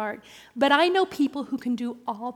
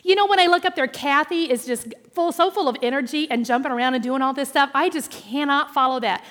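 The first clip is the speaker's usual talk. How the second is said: lady's chatter; 3 semitones higher, 9 dB louder than usual. Retold or imitated. New lady explaining to teller, loud animated chatter. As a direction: gush the explanation. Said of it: "and she said".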